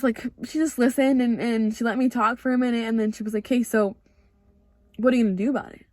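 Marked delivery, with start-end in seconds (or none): 3.5-5.8 calm, even question. Retold or imitated. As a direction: ask it calmly, no reaction. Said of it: "she's so calm when she talks".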